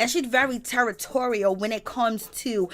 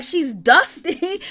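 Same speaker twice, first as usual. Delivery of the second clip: slow shade; 6 semitones higher, 4 dB louder, much slower than usual. Retold or imitated. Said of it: "Wendy was like".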